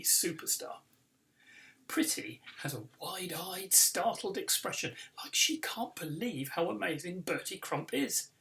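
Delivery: lively read-aloud storytelling; story narration. A narrator's reading. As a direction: read it like a children's book for a crowd. Author reads book aloud.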